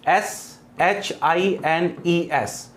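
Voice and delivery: spelling out slowly. Shown as a demonstration. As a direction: spell it out for the class. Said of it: "शाइन्स". (धीरे-धीरे spelling)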